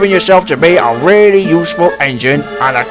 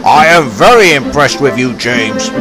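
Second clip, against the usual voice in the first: smiled; 3 semitones lower than usual. Acted. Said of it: "he smiled".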